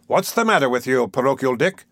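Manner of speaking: mildly jocular questioning; a touch of official joking. Acted. Mister Bumble questions the pauper boy, mildly jocular. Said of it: "with well-timed jocularity".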